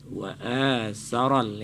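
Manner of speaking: wa asaral, slowly, A drawn out; long A. Shown as a demonstration. Judge repeating for the child, slow long A in asaral. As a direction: hold the A of asaral, never cutting it short. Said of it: "Jangan dipendekkan".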